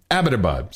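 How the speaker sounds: Abbottabad as "AB-uh-tuh-bahd"; correct pronunciation. Shown as a demonstration. Host drilling the new town name, pronounced correctly. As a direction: Abbottabad stressed on AB, light tail. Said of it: "So from now on".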